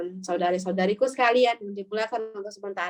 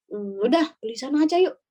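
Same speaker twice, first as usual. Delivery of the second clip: mock loud chatter about the shop, louder at the end; loud gossip to friend; 4 dB louder than usual. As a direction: talk over the seller's head so he hears. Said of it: "Kita ngomong itu keras banget".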